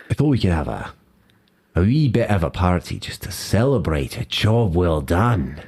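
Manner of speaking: a light Scottish lilt on wee and party; Scottish accent. Acted. Scotsman restarts his party line, Scottish accent regained. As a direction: pull the Scottish back in, smooth and sly. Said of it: "my accent kinda wandered there".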